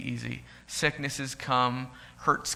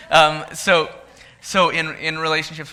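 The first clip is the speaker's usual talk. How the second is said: higher, pushing on through real tears; near tears; 5 semitones higher, 9 dB louder than usual. Real, not acted. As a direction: talk on while fighting back crying. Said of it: "I'm trying not to cry".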